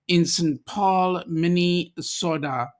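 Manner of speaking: put-on slow, half-hearted German accent. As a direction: attempt a mock German accent, drawn out. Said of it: "you can't do that with the accent".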